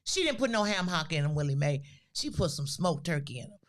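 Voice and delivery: high, quick tattling mother on the phone; gossiping mother. Retold or imitated. Mother complaining to her sister on the phone, high and lively.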